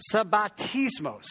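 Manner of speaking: lightly Italian-sounding sabbatismos, slow; teaching a word with a playful Italian lilt; Italian-flavoured Greek. Shown as a demonstration. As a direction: roll out "sabbatismos" with a mock Italian flair. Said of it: "that's kind of Italian accent".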